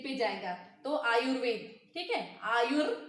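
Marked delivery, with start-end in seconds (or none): 2.5-3.0 आयुर with the final र clearly sounded; teacher's demo of the र closing आयुर; र pronounced. Shown as a demonstration. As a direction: say आयुर, landing audibly on the र. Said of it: "र यहाँ पे pronounce हो रहा है".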